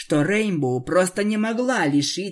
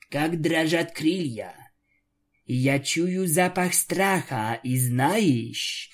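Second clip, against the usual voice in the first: gloating vampire. Acted. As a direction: savour every word of her fear. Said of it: "довольно говорила пленница".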